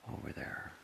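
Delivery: soft breathy whisper aside. Real, not acted. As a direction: whisper so the house sleeps. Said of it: "sorry if I'm whispering".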